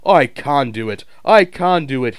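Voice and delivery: puffing effort. A narrator's reading. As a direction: push with each puff. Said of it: "he puffed".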